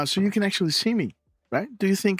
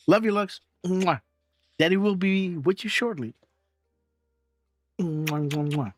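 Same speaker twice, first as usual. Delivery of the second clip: tender love you with blown kisses; sweet goodbye, kissing between words; 2 semitones higher than usual. Real, not acted.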